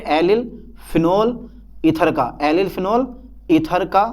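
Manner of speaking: word-by-word dictation with pauses. Real, not acted. Teacher giving students a definition to write down, dictating. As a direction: dictate in short, separated chunks. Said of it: "मैं theory लिखवा दूँ".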